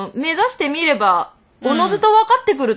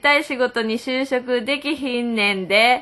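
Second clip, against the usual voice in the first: Kansai dialect reading; 2 semitones lower than usual. Retold or imitated. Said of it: "あ、これ関西弁。".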